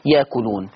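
ياكلون with a long open آ and no hamza; Warsh reading. Shown as a demonstration. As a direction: draw out the آ in ياكلون with no glottal stop. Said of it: "تبدل الألف فتصير".

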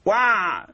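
وع pushed out with a bleat. Shown as a demonstration. Teacher imitates the bleating mistake on وع. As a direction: show the bleating fault on وع. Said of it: "قلت البعبعة".

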